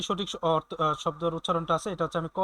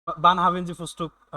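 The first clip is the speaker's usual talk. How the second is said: spoken very slowly, word by word; slow German example; 3 dB louder, much slower than usual. Shown as a demonstration. Teacher reading a German phrase slowly to students. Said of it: "teaching German phrase".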